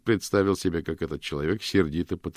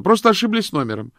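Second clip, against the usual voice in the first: much higher, much louder shout; shouting back; 11 dB louder than usual. A narrator's reading. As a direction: call back to him quickly. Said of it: "крикнула ему в ответ".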